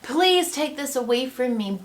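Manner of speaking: high, loud, eager yes. Retold or imitated. Eager sick man answering Jesus, loud and high. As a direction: leap at the offer, bright and loud. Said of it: "he doesn't jump to it and say".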